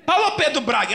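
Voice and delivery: high, loud repeated name; repeated shout. Retold or imitated. Medium repeating the name in a high loud shout. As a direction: keep calling the name, insistent.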